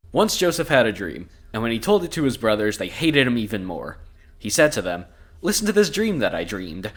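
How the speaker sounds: measured storybook narration with clear phrasing; scripture read-aloud. A narrator's reading. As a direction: read the Bible passage aloud. Reads the Bible story aloud.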